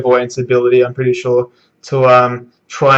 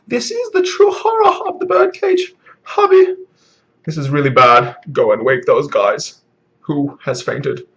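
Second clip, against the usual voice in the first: mock-dramatic dub delivery, lightly voiced; bad Japanese voiceover. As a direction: put on a half-hearted anime dub voice. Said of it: "I'm doing a really bad impression".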